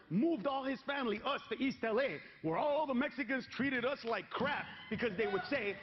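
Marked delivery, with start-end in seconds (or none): none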